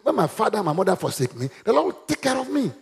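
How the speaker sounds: quick start rising to a high, sure finish; confident declaration. Shown as a demonstration. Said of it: "I will say that in confidence".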